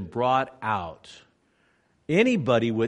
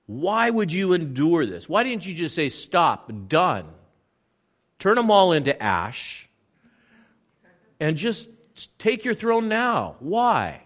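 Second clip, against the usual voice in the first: higher, louder, building to a near shout; pleading, rising to a cry; 6 semitones higher, 5 dB louder than usual. Retold or imitated. Preacher at the holy site asking Jesus, building to a pleading cry. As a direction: plead with him, rising to full force. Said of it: "And I think about this and I go".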